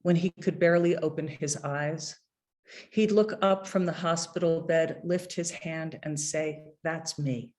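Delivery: measured, unhurried poetry reading; poem reading. Acted. Poet reading his poem about his dying father to an audience, measured and unhurried. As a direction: read each line like a poet at a podium.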